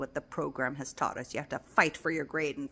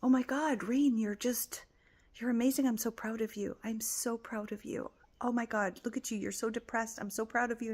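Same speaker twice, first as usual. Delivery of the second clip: proud self-talk; 5 semitones higher than usual. Retold or imitated. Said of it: "you know, like".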